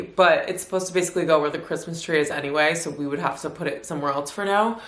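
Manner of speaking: blocked nose, stuffy voice. Real, not acted. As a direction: talk through a stuffy nose. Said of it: "I don't know why I sound stuffy".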